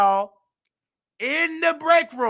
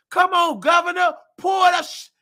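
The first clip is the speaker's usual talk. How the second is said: higher, rising shout at the governor; 6 semitones higher than usual. Real, not acted. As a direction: call the governor out, pitch climbing. Calling out the governor.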